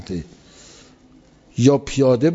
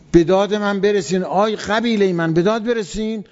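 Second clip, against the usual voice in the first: higher-pitched mock cry for help; retold cry for help; 5 semitones higher than usual. Preacher voicing a man calling his tribe, mild mock cry. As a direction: call to your tribe, raised but not shouted. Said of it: "فقط یه نفر داد زد".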